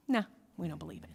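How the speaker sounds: quick, offhand refusal; dismissive. Acted. Rabbis waving away their colleague's proof, casually dismissive. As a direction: brush it off briskly.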